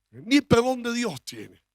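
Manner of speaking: slow, drawn-out mock condemnation; mock scorn. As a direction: drag it out, mocking the judge. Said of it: "cuando alguien dice". (desprecio lento y burlón)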